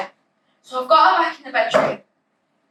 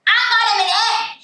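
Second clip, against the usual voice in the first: higher, louder call back; shouting mum; 8 semitones higher, 4 dB louder than usual. Acted. Mother dashing off shouts back to her daughter. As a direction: call it back over your shoulder. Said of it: "she shouts back at me".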